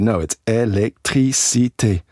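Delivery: électricité said the French way, slow, every syllable clear; électricité with each syllable given full weight; French pronunciation. Retold or imitated. Retelling a French speaker correcting him, in French style. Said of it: "And they said".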